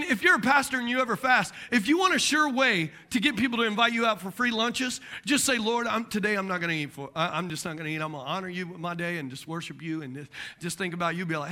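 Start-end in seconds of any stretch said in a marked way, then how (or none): 5.6-11.2 mock pious murmur. Pastor piously announcing a fast.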